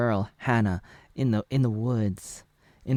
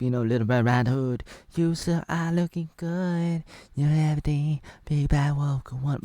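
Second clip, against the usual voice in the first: playful character voice; 5 semitones higher than usual. Pretend. Father voice warns daughter.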